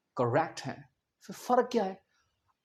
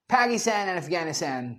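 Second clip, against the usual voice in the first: slow American "Pækistæn and Æfgænistæn"; American English with flat a's; American accent; 3 semitones lower, 4 dB quieter, much slower than usual. Shown as a demonstration. Teacher quoting Trump's way, slow American accent. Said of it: "वो अफगानिस्तान को अक्सर क्या बोलते".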